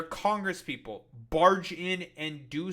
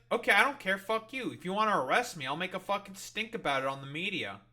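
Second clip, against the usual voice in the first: acted-out defiance, high start then settling; brash mock standoff; defiant dare; 4 semitones higher than usual. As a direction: play someone daring them to make an arrest. Acting out defiance of guards.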